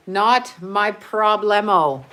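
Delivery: slogan read. Pretend. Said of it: "That's my motto".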